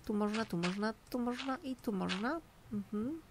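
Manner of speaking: usual speaking voice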